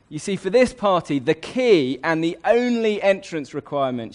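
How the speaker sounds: a hint of a gracious queen announcing; Queen speaking. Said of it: "she says".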